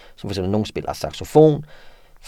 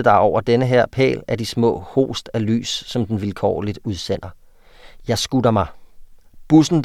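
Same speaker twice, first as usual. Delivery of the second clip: reading a short story aloud with feeling; 3 dB louder than usual. Acted. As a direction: tell the rainy street scene like a novel. Reads a student's story aloud. (oplæsning af en novelle)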